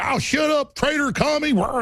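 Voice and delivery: high whiny mock yell; mocking whine. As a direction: sneer it like a whiny heckler. Mocking opponents' whining.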